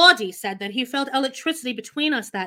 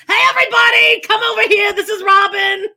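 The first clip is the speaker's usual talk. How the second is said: put-on high, loud old Jewish woman voice; loud, showy old Jewish woman voice; 9 semitones higher, 9 dB louder than usual. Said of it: "Where is this voice coming from".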